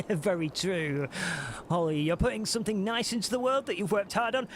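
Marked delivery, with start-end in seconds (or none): 1.7-4.5 indignant. Real, not acted. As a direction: stand up for her, fired up. Defending streamer against trolls.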